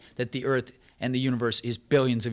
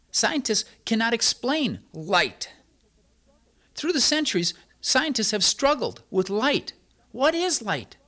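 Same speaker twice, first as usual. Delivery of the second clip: rising preacher fervor; 7 semitones higher than usual. Acted. Preacher to his congregation, higher and building. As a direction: climb in pitch as the wonder grows.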